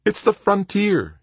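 high, loud, drawn-out excitement; thrilled, voice way up high; excited. A narrator's reading. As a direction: sell it with fervour. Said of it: "he told her excitedly".

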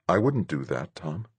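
soft, quiet reassurance; reassuring. Acted. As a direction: gently promise him.

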